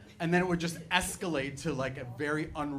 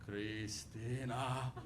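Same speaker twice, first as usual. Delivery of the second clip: guilt-trip her daughter theatrically; dramatic grandma; 5 dB louder, much slower than usual. Retold or imitated. Grandma answering mom's scolding with a slow hammed-up wail. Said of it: "my grandma would be like".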